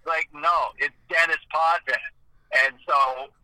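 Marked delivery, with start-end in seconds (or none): 0.3-2.0 Dennis Potvin said plainly English, s and final n sounded; Americanized correction. Retold or imitated. Ferraro insisting back on the name, Americanized pronunciation. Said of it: "the name got Americanized".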